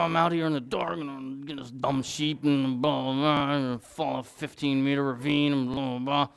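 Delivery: low, mock-grumpy mumbling; grumbling complaint. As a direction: grouse under your breath like a put-upon shepherd. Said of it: "I'd be complaining".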